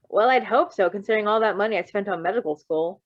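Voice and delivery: a hint of a pleased doctor joking; wry, lightly amused doctor; chuckling doctor. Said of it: "he said with a chuckle".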